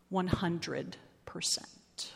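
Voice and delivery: soft unvoiced whisper. Closing the story to listeners, whispered. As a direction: breathe the last words out.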